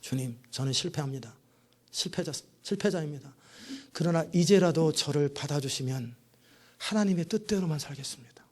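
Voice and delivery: soft, hushed confession, dropping to a whisper; humble confession. Retold or imitated. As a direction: confess it quietly, broken and humble. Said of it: "정직하게 말했습니다".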